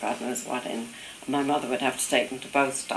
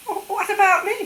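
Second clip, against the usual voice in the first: high, louder mock protest; indignant mother; 6 dB louder than usual. New mother left behind in the storm, high indignant protest. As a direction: imitate someone aghast at being left behind.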